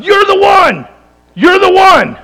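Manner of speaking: high, loud excited yell of recognition; retold yell. Woman at the market yells at Kamal, recognizing him: loud excited yell. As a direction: shout it out like you finally found him. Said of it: "And she yells at".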